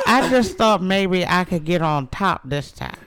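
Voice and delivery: slow, loud, angelic voice with a laugh; heavenly voice. Acted. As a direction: keep the heavenly voice going, laughing. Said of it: "heavenly voice".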